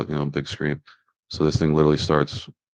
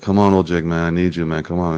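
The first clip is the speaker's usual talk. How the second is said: retold panicked plea, raised at the start; freaking out. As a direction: plead urgently for help, lightly acted. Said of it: "freaking out".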